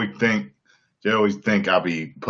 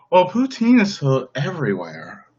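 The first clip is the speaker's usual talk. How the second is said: higher-pitched mimicry of a woman; put-on female voice, pitched up; imitating her talk; 6 semitones higher than usual. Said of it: "That's how she talks".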